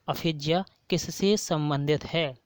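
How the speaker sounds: slow, deliberate, stress on किससे; slow repeat. Shown as a demonstration. Teacher repeating the question for students, slow and deliberate. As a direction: repeat it slowly, leaning on किससे. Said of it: "teacher repeats question slowly".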